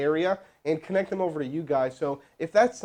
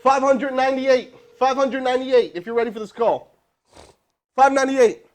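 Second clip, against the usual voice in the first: loud, high call-out of the number; loudly calling out the next number; loud announcing; 7 semitones higher, 8 dB louder than usual. Real, not acted. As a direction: call it out like a game host.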